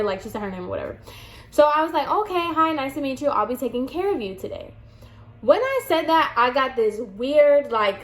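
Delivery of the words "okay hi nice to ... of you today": higher-pitched polite hello, softening at the end; customer-service greeting. Retold or imitated. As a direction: greet a new client in a light, higher voice. Acted friendly greeting to client.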